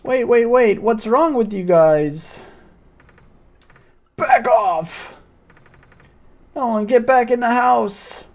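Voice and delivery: alarmed villager voice. Acted. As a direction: cry out to the mob, then turn worried.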